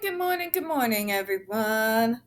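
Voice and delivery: high sing-song good morning; sing-song greeting. Acted.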